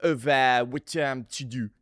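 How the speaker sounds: put-on slow, halting French accent. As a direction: grope for words in a French accent. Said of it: "Great French accent".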